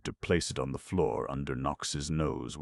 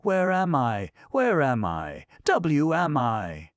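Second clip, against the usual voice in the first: high, loud, dazed gnome voice, slowing; little gnome waking confused; frightened gnome; 12 semitones higher, 9 dB louder, slower than usual. Acted. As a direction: cry out lost and scared. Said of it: "he mumbled in a frightened voice".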